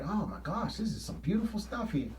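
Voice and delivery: hushed, reverent mock preacher; mock eloquent preacher. Preacher awed by a beautiful passage, hushed mock reverence. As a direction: breathe it out like a preacher admiring scripture. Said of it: "he gonna make it sound like".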